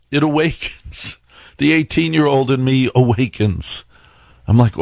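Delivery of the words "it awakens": higher, softer ominous whisper; dramatic hush. Shown as a demonstration. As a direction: breathe it like a horror trailer.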